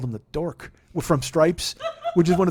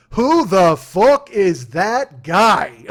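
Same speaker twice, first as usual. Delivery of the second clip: McGregor put-down; 3 semitones higher, 10 dB louder, much slower than usual. Retold or imitated. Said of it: "he goes".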